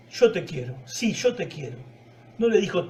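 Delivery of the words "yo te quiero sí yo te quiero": lower, subdued admission, lightly acted; a modest, honest reply, mildly acted; humbled honesty. Pedro answers Jesús with lowered expectations, humbly honest. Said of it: "fue más realista, más honesto".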